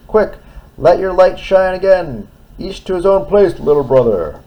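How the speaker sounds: high, loud urgent plea; urgent bridge voice. Acted. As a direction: urge him on. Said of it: "cried the bridge".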